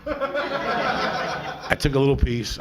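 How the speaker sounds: drawn out slowly through a laugh; laughing confession. Real, not acted. Comic confessing to the crowd, laughing. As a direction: giggle as you admit it.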